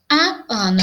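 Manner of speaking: normal talking voice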